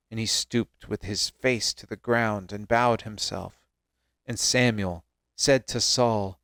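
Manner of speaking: measured Bible story reading; scripture narration. A narrator's reading. Reader tells listeners of Saul meeting Samuel, measured narration. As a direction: read it out as solemn storytelling.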